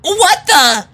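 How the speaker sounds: high, loud stunned cry. A narrator's reading. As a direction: disbelief cutting off mid-phrase. Shocked at the sight.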